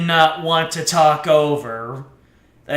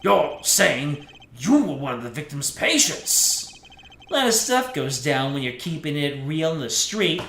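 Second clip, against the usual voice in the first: cocky tough-guy voice, pitched up; brash young thug testifying; street punk defendant; 3 semitones higher, 3 dB louder than usual. Acted. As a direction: brag about the crime with swagger. Plays defendant at length.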